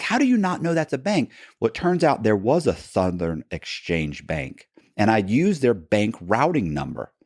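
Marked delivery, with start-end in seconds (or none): 0.0-1.3 mock disbelief. Mocking the agents' mistake.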